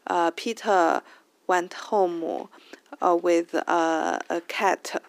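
slow "in this story", each word set apart; unlinked learner English. Shown as a demonstration. Host shows how people generally speak, unlinked learner English. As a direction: sound out every word of "in this story" separately. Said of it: "people generally speak like this".

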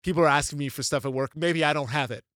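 fed-up parent. Retold or imitated. Parent overwhelmed after work, half-joking exasperation. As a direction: vent like a parent at the limit.

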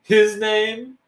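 incredulous rising question; surprised. Retold or imitated. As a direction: disbelief at a boy's name. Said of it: "and I was like".

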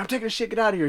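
high-pitched mock dismissal; imitated annoyed film character. Acts out Smokey in film scene.

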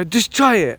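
insist, imitating a bossy partner; mock aggressive insistence. Imitating wife pushing food on him, mock aggressive. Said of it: "she's very aggressive".

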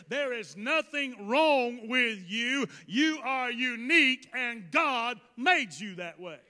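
emphatic preacher driving each point home; forceful preaching. Real, not acted. Preacher assuring the congregation they are unique, forceful preaching. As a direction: preach it with punchy, repeated emphasis.

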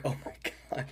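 whispered gasp, then slow; hushed mock shock. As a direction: breathe it out in mock alarm. Shocked at bloodied friend.

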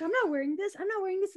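high, stubborn whiny refusal; mock refusal. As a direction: refuse it like a sulky kid. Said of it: "I was like".

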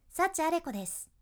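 ending of です not dropped too far. Shown as a demonstration. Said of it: "語尾の音を下げすぎないバージョン".

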